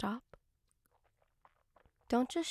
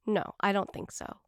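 ordinary talk

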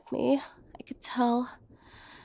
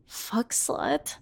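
unvoiced, softer whisper of the word; whispered insult; 3 semitones lower, 5 dB quieter than usual. Woman whispering the names her lover called her. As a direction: breathe the slur out like a shameful secret.

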